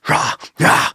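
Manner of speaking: unvoiced "rah, rah" singer grunts; imitated rock bark. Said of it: "couldn't help but when it go".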